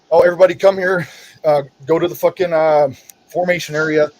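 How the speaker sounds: mock sergeant summons. Vet mimicking the late-night formation call, mocking. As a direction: parody the midnight call, trailing off into blah.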